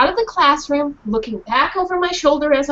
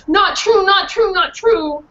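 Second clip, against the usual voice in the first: dog protesting; 7 semitones higher, 4 dB louder, slower than usual. Acted.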